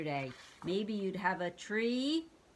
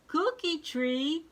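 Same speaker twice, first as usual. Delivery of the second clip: amazed monster; 10 semitones higher, 7 dB louder, slower than usual. Acted.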